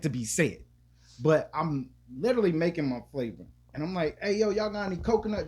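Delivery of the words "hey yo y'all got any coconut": called out high across the room; yelling. Retold or imitated. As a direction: yell the question at the worker, pitched up. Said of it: "Just yelling".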